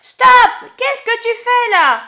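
sharp loud halt; loud stop. Real, not acted. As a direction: cut the teller off. Listener halts story.

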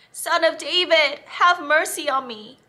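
high, loud repeated plea; shouting again. Acted. Beggar shouts again to Jesus, loud and high. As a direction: call out even harder over them. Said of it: "Bartimaeus shouted again".

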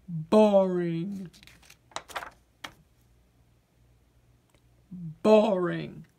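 low, glum potato voice; bored potato. Acted. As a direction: sound like a vegetable with no fun left. Potato repeats boring endlessly.

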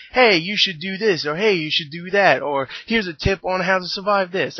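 put-on British accent. Game narrator giving the player pointers, mock British accent. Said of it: "that's why I'm doing that accent".

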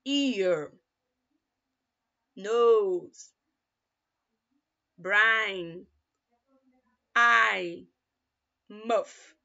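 each word slow and clear, a pause after each; model pronunciation. Shown as a demonstration. Teacher modeling words for students to repeat, slow and clear. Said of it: "Listen to me and repeat".

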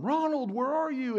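high, loud call across the building. Retold or imitated. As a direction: shout his son's name as if searching. Searching and calling for son.

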